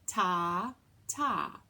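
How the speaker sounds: two even ta beats, slow and steady; rhythm syllables. Shown as a demonstration. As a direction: speak each ta on the clap. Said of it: "when we clap them in music, we clap".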